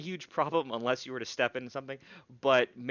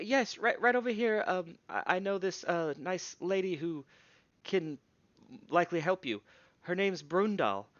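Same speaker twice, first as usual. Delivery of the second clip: higher, hesitant, stammering helper; Mev's voice; 6 semitones higher than usual. Acted. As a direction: stammer it out, higher, eager to help. GM voices Mev introducing Brundal.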